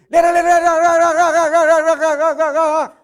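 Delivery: loud, high "le-le-le" babble; mock a wife's nonstop tirade at full volume; nagging wife imitation. Preacher playing a wife scolding her husband, loud mock nagging. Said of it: "Viene tu esposa y te dice".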